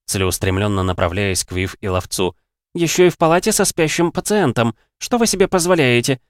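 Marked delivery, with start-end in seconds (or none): 2.7-6.2 high, loud scolding; angry scolding. Acted. Ashton scolding the noisy cadets, loud and high. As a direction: tear into them.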